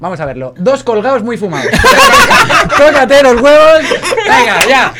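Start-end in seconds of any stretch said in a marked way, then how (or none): 0.6-1.7 laughing in disbelief; can't keep a straight face over the title; giggling at the silly title. Real, not acted. Reading absurd Spanish title. 1.8-2.7 high, loud burst of laughter; real loud cackle. Real, not acted. 2.8-4.9 louder, higher, slow exasperated cry through laughter; laughing exasperation; laughing outrage. Real, not acted. Outraged by silly title.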